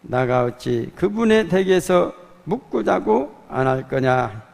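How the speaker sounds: loud, earnest Jeolla dialect recitation of the psalm; 전라도 사투리로 힘차게 낭독; Jeolla dialect reading. Pretend. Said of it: "방언으로 번역은 시편 이십삼 편을 한번 준비를 해봤어요".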